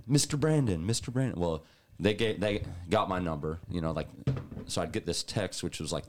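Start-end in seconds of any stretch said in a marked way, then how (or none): 0.1-1.4 German guys calling. Retold or imitated. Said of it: "they just called me Mister Brandon".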